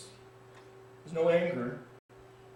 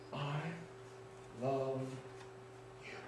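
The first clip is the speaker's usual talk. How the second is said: gentle voice; 2 semitones lower, 13 dB quieter, slower than usual. Acted. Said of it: "I heard that voice again".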